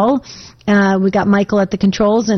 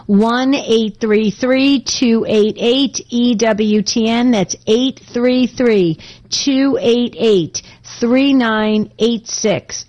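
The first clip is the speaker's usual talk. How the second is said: very slow, each digit spaced out; radio host dictating the phone number very slowly; slow number read; 2 semitones higher, much slower than usual. Shown as a demonstration. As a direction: spell out the number slowly for callers. Reading out call-in number.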